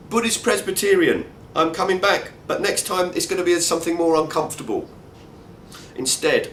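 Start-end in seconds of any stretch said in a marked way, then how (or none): 0.1-4.9 twinkle in the eye. Pretend. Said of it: "with a twinkle in the eye".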